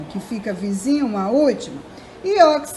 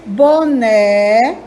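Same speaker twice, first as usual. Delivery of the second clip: "Boné" louder, with a long rising "né"; stress on last syllable; 5 dB louder than usual. Shown as a demonstration. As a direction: stretch and lean on the "né" of "Boné". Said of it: "a sílaba tônica".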